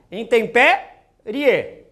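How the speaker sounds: drawn out slowly for the class; slow syllables. Shown as a demonstration. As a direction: stretch the word out syllable by syllable. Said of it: "Olha só".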